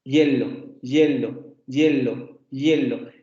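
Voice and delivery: HIELO begun with a Y glide, "YEH-lo"; each HIELO said separately, falling, starting on a Y; Y-like onset. Shown as a demonstration. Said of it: "fonema que se parece mucho a una Y".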